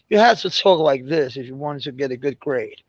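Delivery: imitation English accent. Shown as a demonstration. Explaining how to earn good grades, English accent. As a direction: lightly put on an English accent. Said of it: "speak with an English accent".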